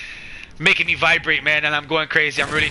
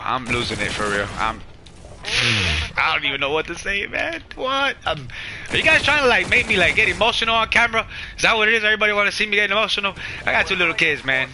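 choked up. Real, not acted. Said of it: "Tears of a man".

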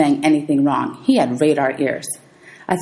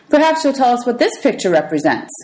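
teacher challenge; 6 semitones higher than usual. Acted.

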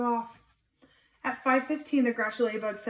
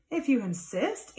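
sweetly; 3 semitones higher, slower than usual. Acted. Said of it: "answered the friendly ladybug sweetly".

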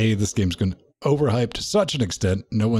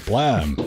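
fireworks noise. Retold or imitated. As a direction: pop out the firework bang once more. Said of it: "That's my firework impression".

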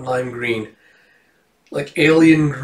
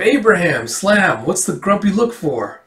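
high waitress voice; 6 semitones higher than usual. Acted. Waitress Tammy greeting Abe.

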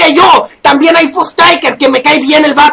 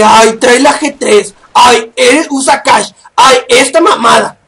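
mocking whiny voice; 2 semitones lower, slower than usual. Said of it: "un montón de gilipollas que".

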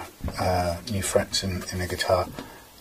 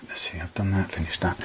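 muttered aside; 6 dB quieter than usual. Real, not acted.

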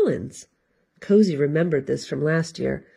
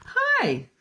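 bright grinning hi, much higher. A narrator's reading. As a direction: say hi with a big grin. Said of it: "the lead dog grinned".

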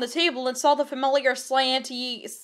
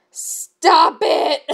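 mock protest; 3 semitones higher, 4 dB louder than usual. Real, not acted. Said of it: "Hermione does not play with her curls".

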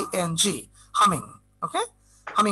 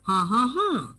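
wordless closed-mouth hum copying a sentence's melody; hummed intonation. Shown as a demonstration. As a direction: hum the tune of a question in three notes. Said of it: "তুমি সুর দিবে এটাই". (গুনগুন করে বাক্যের সুর)

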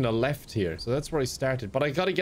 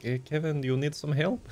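lightly imitated French accent; attempted French accent. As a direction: put on a rough, half-hearted French accent. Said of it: "a little French accent".

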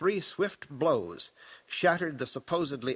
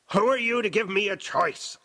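loud, high, querulous autocrat; old Baron; 6 semitones higher, 5 dB louder than usual. A narrator's reading. Possessed woman challenging her nephew, querulous old Baron. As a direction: demand it as an affronted tyrant. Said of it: "still the voice of the old Baron".

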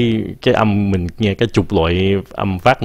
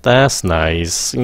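sarcastic; 3 semitones lower than usual. Shown as a demonstration. Teacher demonstrating a sarcastic, low That's nice. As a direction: pitch dropped, flat and unimpressed That's nice. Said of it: "Nếu các bạn xuống giọng".

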